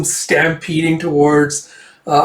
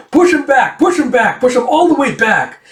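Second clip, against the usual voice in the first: high, loud rallying yells; mob shouting; 11 semitones higher, 5 dB louder than usual. Retold or imitated. Townspeople grab at saddle and yell, fired up. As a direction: act out a crowd egging itself on, high.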